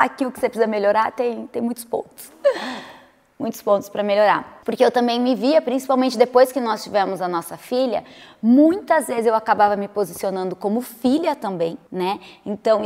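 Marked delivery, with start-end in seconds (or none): none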